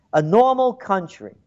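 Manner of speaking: scoffing at the phrase; sarcastic echo. Real, not acted. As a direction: throw the phrase back with scorn.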